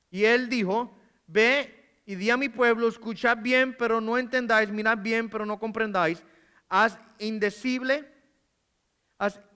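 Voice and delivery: a steady, solemn Bible reading; scripture reading. Acted. Preacher reading Isaiah aloud to the congregation, solemnly. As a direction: read the prophet's words with gravity.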